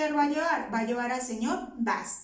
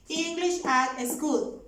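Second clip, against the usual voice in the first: slow, deliberate model phrase; slow dictation; much slower than usual. Shown as a demonstration. Teacher showing the negative form to students, slowly. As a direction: lay it out slowly for the class.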